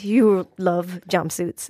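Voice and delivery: slow, laughing tease. Real, not acted. Guest laughs teasing.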